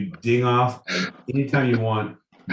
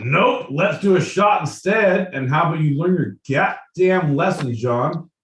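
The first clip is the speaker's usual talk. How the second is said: higher and louder, quick indignant refusal; loud protest; 5 semitones higher, 4 dB louder than usual. Real, not acted. Refusing the lightning round, a loud quick protest to John. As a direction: shout him down, fast.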